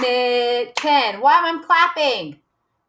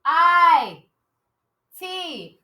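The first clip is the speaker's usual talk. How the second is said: 1 called-out spelling; 5 semitones higher than usual. Shown as a demonstration. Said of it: "scream it out".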